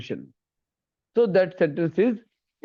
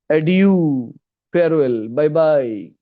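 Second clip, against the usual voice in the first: louder, called-out goodbye; calling farewell; 5 dB louder, much slower than usual. Shown as a demonstration. Teacher calling goodbye to show interjections. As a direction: wave someone off loudly.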